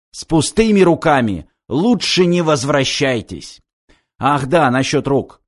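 lightly voiced scornful commandant; mocking commandant. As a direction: coldly taunt the henchmen. Commandant gives orders.

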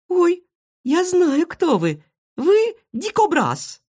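very high, slow delighted cry; joyful exclaim. Acted. Marysya recognises her rescuer, very high and delighted. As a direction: gush with joy at the discovery. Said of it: "воскликнула радостно Марыся".

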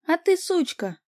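high piercing shout on ТЫ; screaming insult. A narrator's reading. The girlfriend shrieks at Vika, loud and high. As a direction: spit it out as a shriek. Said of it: "закричала девушка".

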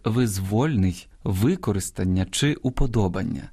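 careful stress in "визвольний, використання чи уподобання"; correct dictionary stress. Shown as a demonstration. Host showing listeners surprising but correct stresses, careful stress demonstration. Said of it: "наголошування таких слів".

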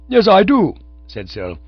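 high, loud retort; indignant defiance. A narrator's reading. Cyril defying the angry manager, high and loud. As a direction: snap back defiantly.

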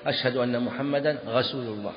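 رسول said with gh for r, "ghasul"; gh-for-r lisp on رسول; lisp demo. Shown as a demonstration. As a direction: turn the r of رسول into a throat gh. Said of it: "غينا، يقول".

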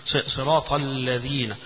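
صراط الذين read slowly, doubling the lam; slow demo reading. Shown as a demonstration. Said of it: "مش هتقف أنت تقرأها كده". (قراءة متأنية مع تشديد اللام)

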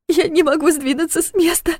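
high, strained through tears; tearful. A narrator's reading. Trapped Sasha answers through tears, high and strained. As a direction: sob the words out. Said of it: "сквозь слёзы прошептала Саша".

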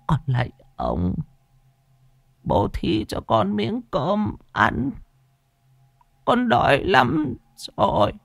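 put-on high, slow pleading old beggar; begging old woman. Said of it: "cầu xin Bá Khôi thần khẩn khoản". (giọng bà lão ăn xin, cao, chậm, van nài)

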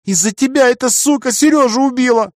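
high squeaky accusing cry; squeaky creature. A narrator's reading. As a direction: squeak it out shrilly. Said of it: "пищала та".

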